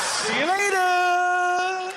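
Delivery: slow, high, shouted "See you later"; cheeky burglar farewell. Retold or imitated. Burglar leaving the boy, slow high cheeky shout. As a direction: drawl it out grinning. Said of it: "He's obviously going".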